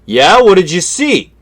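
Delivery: pressing, eager question; urgent radio reply. Retold or imitated. Friend asks the news over the CB, eager.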